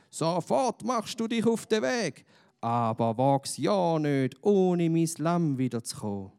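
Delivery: loud, high threat, slowing on wag's ja nicht; threatening. A narrator's reading. Angry master threatening the boy, loud and high. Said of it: "droht er ihm".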